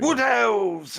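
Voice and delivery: sudden high, loud "got it"; excited recognition. Real, not acted. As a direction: burst out as it clicks. Suddenly remembers the team.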